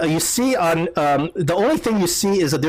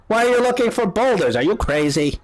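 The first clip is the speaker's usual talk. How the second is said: put-on higher, quick, incredulous old woman; old lady; 7 semitones higher than usual. Old lady doubts boulder-hunting travelers, incredulous old lady voice. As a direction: question them as a baffled old lady. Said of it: "this old lady comes out".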